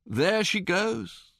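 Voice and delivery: slow, wistful, drawn out; watching the ship sail off with his food; regretful sigh. A narrator's reading. Seasick friend gazing after the ship, regretful.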